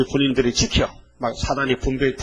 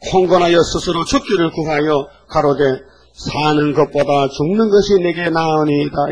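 scripture reading; 3 dB louder than usual. Acted. Reads scripture aloud.

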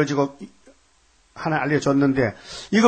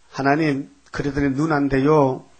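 pleading prayer. Retold or imitated. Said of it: "그 기도해줬어".

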